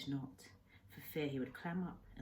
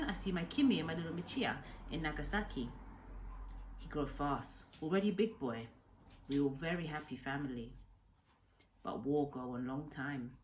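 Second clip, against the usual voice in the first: put-on old Japanese man, grief-laden memory. Old man telling the boy how he lost his family, subdued. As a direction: let the loss weigh on each word. Kensuke tells of war.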